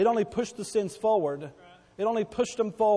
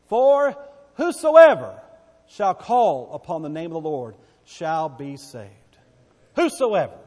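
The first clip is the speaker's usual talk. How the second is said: preaching shout; 9 dB louder than usual. Acted. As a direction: lift the word whosoever to a shout. Preaching peak on whosoever.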